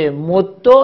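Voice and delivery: مدو slow, with doubled dal and final o; assimilated, damma ending. Shown as a demonstration. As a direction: hold the dal of مدو, then release -do. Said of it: "اگه ادغام بکنید". (مدو کشیده، با دال مشدد و ضمه)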